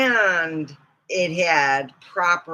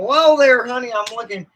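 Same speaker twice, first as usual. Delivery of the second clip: put-on thick Western accent; 3 semitones higher, 6 dB louder than usual. Mocking dubbed Godzilla actors, thick Western accent. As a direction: imitate a thick cowboy accent. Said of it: "such a thick accent".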